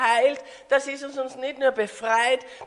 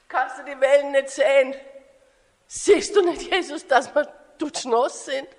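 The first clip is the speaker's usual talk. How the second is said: indignant retort building to loud single words; protest, then belt out each noun; exasperated disciples; 6 dB louder than usual. Acted. Exasperated disciples argue back at Jesus. (empört, immer lauter werdend)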